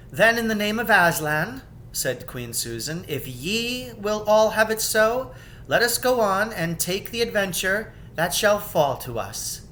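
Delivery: agreeing to take the adventure; lightly voiced yielding queen; Queen Susan giving in.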